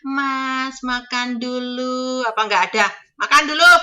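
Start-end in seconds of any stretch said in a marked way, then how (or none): 0.0-2.2 tinggi dan pelan, menawarkan makan dengan sopan; tawaran makan ala Jawa. Retold or imitated. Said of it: "kan monggo ngene". 3.2-3.7 keras dan tinggi, singkat menyuruh makan; gaya majikan di sini. Retold or imitated. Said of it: "Itu orang sini ngomongnya".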